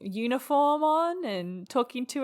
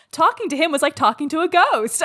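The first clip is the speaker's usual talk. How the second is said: imitating her upbeat tone, higher and louder; mock upbeat; 6 semitones higher, 5 dB louder than usual. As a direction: chirp it brightly as a joke, nearly laughing. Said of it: "she's saying it so upbeat".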